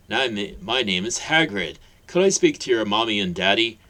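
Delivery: a gentle giant asking kindly; Hagrid's voice. Acted. Hagrid speaking to Harry.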